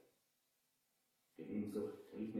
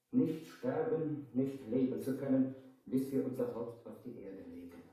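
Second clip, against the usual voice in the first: dying curse; 6 semitones higher, 11 dB louder than usual. Retold or imitated. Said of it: "Sterbend verwünschte er mich".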